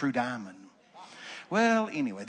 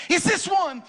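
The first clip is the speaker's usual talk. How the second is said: put-on high, loud childlike question; excited pastor's wife; 13 semitones higher, 9 dB louder than usual. Pastor's wife showing her find, high and excited. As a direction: ask it like an eager little kid. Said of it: "She said".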